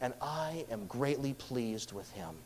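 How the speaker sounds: a touch of loving father; tender fatherly voice. Retold or imitated. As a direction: let God's pride sound gentle and quiet. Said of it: "He's making it clear to all".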